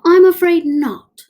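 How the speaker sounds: high, loud squeaky reply; squeaky professor. A narrator's reading. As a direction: shut the idea down firmly. Professor disagrees.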